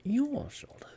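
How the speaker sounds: breathless, appalled whisper; whispered in shock, high; horrified whisper. A narrator's reading. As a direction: gasp it out in horror, barely voiced. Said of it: "in a horrified whisper".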